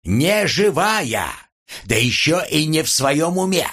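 high-pitched, stretched-out protest; agitated high outcry; alarmed wailing. A narrator's reading. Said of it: "завопил Антип".

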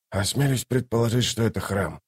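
soft, tentative murmur; hushed, understated supposition; muttering. A narrator's reading. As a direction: mutter a guess half to yourself. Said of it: "пробормотал Ток".

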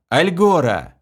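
high loud call; high shouted teleport name; shouted command word. A narrator's reading. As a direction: cry the city name. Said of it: "крикнул".

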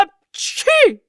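explosive high loud sneeze; huge sneeze. A narrator's reading. Karabas sneezes with a thunderous blast.

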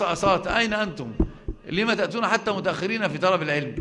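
chuckling while chiding latecomers; laughing tease. Real, not acted. Teacher laughing as he chides late students. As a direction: tease them through a laugh.

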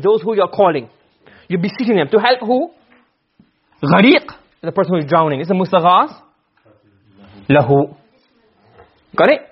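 normal talking voice

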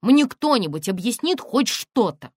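loud, high, slow outcry; exasperated demand. Acted. Тонечка loudly demands that someone explain anything. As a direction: demand it of the whole room.

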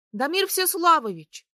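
loud, high, out-of-breath call; breathless shout. A narrator's reading. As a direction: shout his name while panting. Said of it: "задыхаясь, крикнула я". (запыхавшийся крик)

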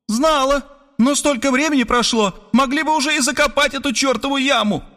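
high, snapping woman's voice; woman in the pit complaining about the hole; irritated retort. Acted. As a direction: bite back at him. She retorts from the trench.

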